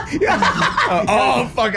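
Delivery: high cackling laugh. Real, not acted. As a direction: laugh through the words.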